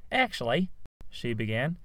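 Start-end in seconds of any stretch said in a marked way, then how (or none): 0.1-0.7 higher, correcting tone; prim Rose. A narrator's reading. Rose correcting how her name is said, prim. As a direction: politely interrupt to correct.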